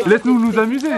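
loud. Real, not acted. Telling the cameraman to let them play.

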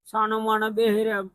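soft, worn words through tears; a lonely grandfather crying over his sons. Real, not acted. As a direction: speaks quietly, still weeping. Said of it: "હવે રડતા નહીં હો તમે".

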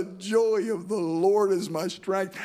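slow, lifted and glad; same words now rejoicing; joyful proclamation. Acted. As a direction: declare it with new joy.

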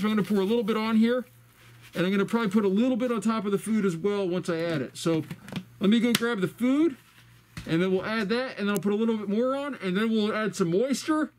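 talking through a face mask; muffled voice behind a mask. Real, not acted. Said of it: "that's why I sound muffled".

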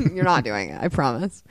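dismissive. Retold or imitated. Retold verdict on actors' accents.

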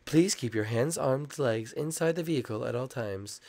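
lightly voiced ride announcement; mock safety announcer. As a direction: read it like a theme park safety recording. Imitates the ride's safety announcement.

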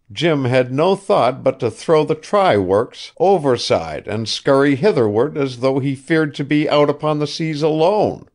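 put-on an old man coaxing, talking up his pet ship; old ship owner Asa. A narrator's reading.

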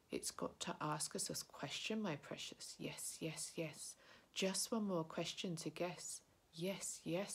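lightly voiced slimy Gollum, wheedling; a hint of creeping creature pleading with his precious. Gollum wheedles Bilbo for a riddle, lightly voiced creature.

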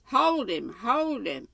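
loud, high command to the dogs; hollering. A narrator's reading. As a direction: call the hounds onto him, pitched high. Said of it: "hollered him".

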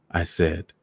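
plain reading voice

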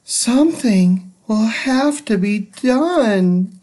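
a lightly voiced resigned teacher; Miss Nelson, fed up. Miss Nelson, tired of the rude class, lightly voiced and fed up. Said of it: "said Miss Nelson".

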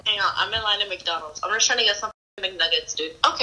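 put-on jealous girlfriend. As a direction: confront her about the boyfriend.

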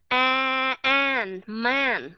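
"A, an, man" built up with a flat Vietnamese A; teacher showing the wrong vowel step by step; Vietnamese A version. Shown as a demonstration. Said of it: "nếu mà nó là A".

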